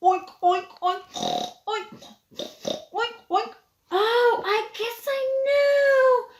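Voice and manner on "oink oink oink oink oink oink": pig oinking. Shown as a demonstration. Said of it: "You'll have to guess".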